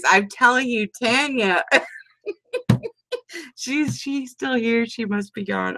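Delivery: ordinary delivery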